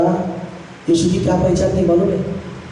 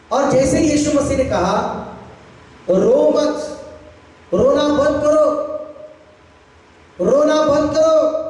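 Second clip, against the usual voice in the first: raised, commanding preacher quoting Jesus; high sustained sermon pitch; preaching; 7 semitones higher than usual. Retold or imitated.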